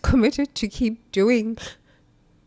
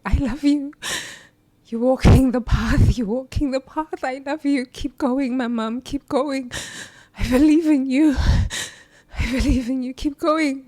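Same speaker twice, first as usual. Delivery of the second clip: grandmother's loving words; 4 semitones higher than usual. Retold or imitated. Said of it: "my grandmother saying".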